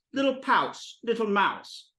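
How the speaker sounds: high little "pouse", then "mouse" for mouth; cutesy mispronunciation. Retold or imitated. Teacher echoing girlfriend's kitten talk, cutesy. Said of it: "But she actually said".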